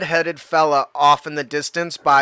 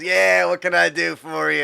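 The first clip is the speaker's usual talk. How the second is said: stoner voice. Acted. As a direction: say it as a laid-back stoner. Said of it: "I gotta put on my stoner voice".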